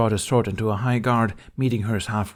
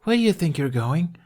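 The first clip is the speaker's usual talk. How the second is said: Astrid demanding; 8 semitones higher, 3 dB louder than usual. Acted. Astrid stops Hiccup leaving.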